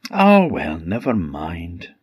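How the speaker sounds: cheerfully brushing off the refusal; happy peasant woman. Acted. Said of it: "said the woman happily".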